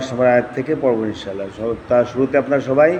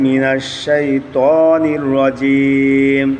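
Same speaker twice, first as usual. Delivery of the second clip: slow chanted recitation of the ta'awwudh; slow melodic Quran chant; Quranic recitation; much slower than usual. Shown as a demonstration. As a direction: chant it slowly, stretching each word. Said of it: "teacher recites for class to repeat".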